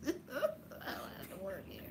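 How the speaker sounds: slow, amused mock whisper; whispered echo. Host echoing the guest's joke back, slow whisper. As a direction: repeat the quote under your breath.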